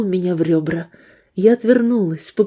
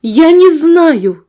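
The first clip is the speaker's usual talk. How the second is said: high slow shout, every word hit; shout stressing each word; 9 semitones higher, 8 dB louder, much slower than usual. Acted. Woman shouting at the gunman, stressing every word. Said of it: "крикнула я, снова делая упор на каждом слове".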